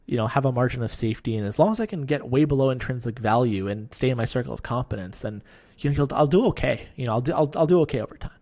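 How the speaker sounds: lightly voiced know-it-all young investor; a hint of smug youngster reciting Buffett; mild imitation of a cocky teen investor; eighteen-year-old self impression. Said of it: "my eighteen-year-old self impression".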